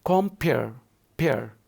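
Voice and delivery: "compare" with the weight on "pare", then "pair" repeated alone; "compare" split into beats, echoing the stressed "pair"; stress on second syllable. Shown as a demonstration. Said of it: "every second syllable will be given stressed".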